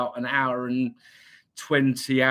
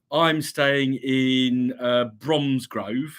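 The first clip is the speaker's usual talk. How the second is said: drawn-out, lightly West Midlands place name; a touch of West Midlands twang; slight West Midlands accent; much slower than usual. Acted. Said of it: "slightly West Midlands accent".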